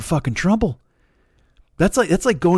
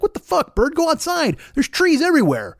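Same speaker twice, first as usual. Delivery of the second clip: mock freakout; 11 semitones higher than usual. Homeowner shrieking at bird.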